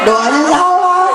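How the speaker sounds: slow, laughing punchline. Real, not acted. Preacher laughing at a friend's wrong prayer, slow and amused. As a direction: chuckle through it, slowly.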